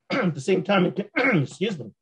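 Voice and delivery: hoarse, voice giving out; croaky voice after a late night; losing voice. Real, not acted. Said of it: "losing my voice".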